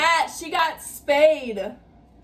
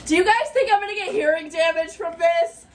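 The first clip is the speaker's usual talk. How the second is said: temporarily deafened; 4 semitones higher, faster than usual. Real, not acted. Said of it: "from you screaming".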